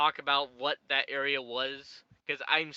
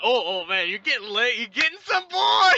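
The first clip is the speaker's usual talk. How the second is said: higher and louder, climbing into a squeaky tease; teasing third wheel; 7 semitones higher, 8 dB louder than usual. Retold or imitated. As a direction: rib him like a cheeky third wheel. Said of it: "he's that third wheel".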